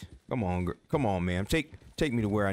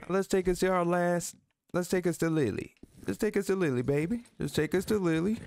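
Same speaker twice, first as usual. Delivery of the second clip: sweet talk to horse; 7 semitones higher than usual. Real, not acted. Talking gently to horse.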